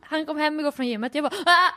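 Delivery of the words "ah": startled yelp, acted out; re-enacted scream. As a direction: mimic screaming in sudden fright. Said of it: "jag skrek rätt ut".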